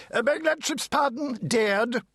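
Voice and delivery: high, clipped barrister's reply; lightly voiced lawyer, pitched high; pompous lawyer. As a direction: answer like a self-important counsel.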